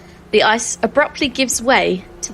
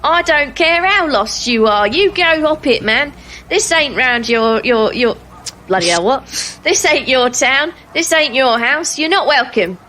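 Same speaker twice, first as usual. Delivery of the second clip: indignant higher-pitched gatekeeper; disgruntled man; 4 semitones higher than usual. Acted. Guard tells lost strangers to go away, disgruntled. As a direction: send them packing, voice pushed up and irritable. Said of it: "the shutters open again and says".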